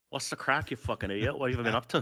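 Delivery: cheeky Northern Irish greeting; Northern Irish accent. Shown as a demonstration. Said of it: "They say".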